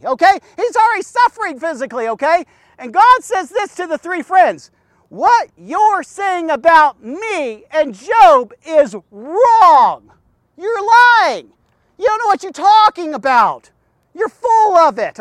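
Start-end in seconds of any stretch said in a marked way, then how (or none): 5.1-15.2 firm, emphatic rebuke with weighty pauses; stern divine rebuke. Acted. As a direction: rebuke them as God, raised pitch on the accusations. God rebukes the three friends.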